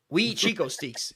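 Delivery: "Steaks" said as a long "steeks"; joking "Mossad accent". Pretend. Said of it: "That's my Mossad accent coming out".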